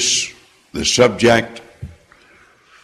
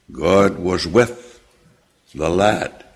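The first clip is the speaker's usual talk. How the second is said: slow, low, leaning hard on "the lad"; stress on the lad; 6 semitones lower, 4 dB quieter, slower than usual. Shown as a demonstration. Preacher reading to his congregation, stressing "the lad". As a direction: draw out "the lad" slowly and set it apart. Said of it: "See the emphasis on the lad".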